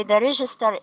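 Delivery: register with the stress on the first syllable, REG-is-ter; teacher modeling the word register, first syllable stressed. Shown as a demonstration. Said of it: "the stress is on the first syllable".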